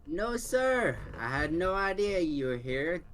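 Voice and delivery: character voice. Acted. Player voices bird character.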